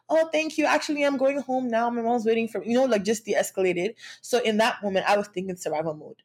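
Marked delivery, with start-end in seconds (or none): 0.1-2.7 higher, sweet polite brush-off; politely sweet, to slip away from a pushy guy; friendly brush-off. Retold or imitated. Girl brushing off a pushy guy, higher sweet polite voice. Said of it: "be friendly and say".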